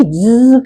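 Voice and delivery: "ज" stretched into zzz; buzzing Z sound. Shown as a demonstration. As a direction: let "ज" buzz on. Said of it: "आवाज निकलती ज करके". ("ज" कंपन के साथ ज़्ज़्ज़)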